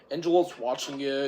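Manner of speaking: usual speaking voice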